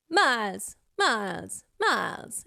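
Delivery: each "miles" dropping quickly then flipping; falling flips. Shown as a demonstration. Coach showing the quick downward flip. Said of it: "goes down very quickly and it flips".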